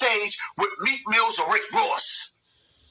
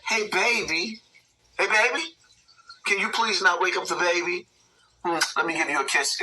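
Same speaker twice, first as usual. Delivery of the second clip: mock sweet wife; 2 semitones lower than usual. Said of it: "nicely said".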